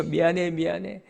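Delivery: hushed, consoling murmur; comforting father. Acted. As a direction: soothe a crying child, voice dropped. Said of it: "안아주면 되죠".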